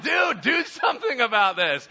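loud, high fed-up plea; exasperated shout. Retold or imitated. Paul's crew begging him to act, shouting loud and high. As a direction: yell it at Paul, fed up. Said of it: "all the guys are like".

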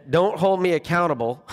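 put-on lightly whiny kid; attention-seeking child. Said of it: "classic traits of children".

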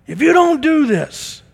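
high, loud, slow angry dad; mock scolding. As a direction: bark it at a son who keeps failing. Father scolding failing son.

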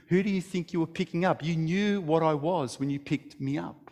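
quiet, plain-spoken snake; very simply. A narrator's reading. Snake calmly answering the dying young man, quiet and simple. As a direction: state it simply and softly. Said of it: "he said very simply".

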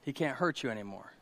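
low, very soft fatherly voice; calm a frightened child softly; gentle reassurance. Acted. Dad shows daughter the stinger, gentle reassurance.

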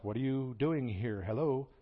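slow, puzzled ask with a light Hello; a nudge to someone who isn't listening; God asking again. Retold or imitated. God repeats his question to Elijah, slow and puzzled.

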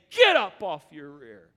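a touch of a fiery leader's charge; rallying Nehemiah. Acted. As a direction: rouse a beaten people to rise. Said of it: "he is saying".

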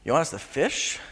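doubtful, questioning um; hesitate, then ask doubtfully; reluctant question with a pause; hesitant. Acted. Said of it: "one second of hesitation".

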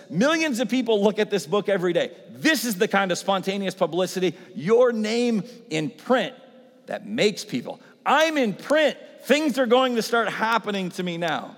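high, loud, giddy pride; exalted rant. Retold or imitated. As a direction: crow about being in print. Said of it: "He says".

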